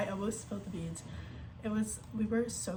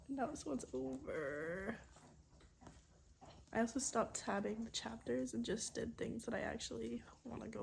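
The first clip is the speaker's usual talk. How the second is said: soft, hushed talk with whispered bits; 8 dB quieter than usual. Real, not acted. Hushed late-night talk.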